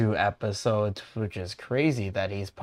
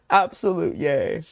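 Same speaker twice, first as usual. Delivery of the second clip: loud, high-pitched adoring gush; gushing excitement; 11 semitones higher, 10 dB louder than usual. Real, not acted. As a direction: gush over an adorable favourite. Gushing over returning character.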